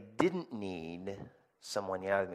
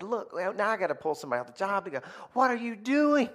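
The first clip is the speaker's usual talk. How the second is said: angry shout; 11 semitones higher, 4 dB louder, faster than usual. Retold or imitated. Retelling angry call.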